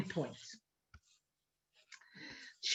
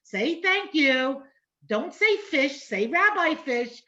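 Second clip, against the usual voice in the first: nagging mother; 5 semitones higher, slower than usual. Retold or imitated. Mother reminding her child to be polite, mock nagging. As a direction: imitate a mother drilling manners. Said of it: "your mother saying".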